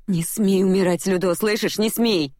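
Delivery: high, cracking, insistent plea; voice breaking. Acted. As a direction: let the voice break on every word. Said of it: "срывающимся голосом произнесла я снова".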